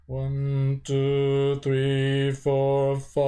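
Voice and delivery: held level tone, stronger on each count. Shown as a demonstration. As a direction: push each step out firmly. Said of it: "So when you do it".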